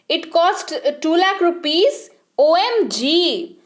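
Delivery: shocked. Shown as a demonstration. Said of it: "हे भगवान".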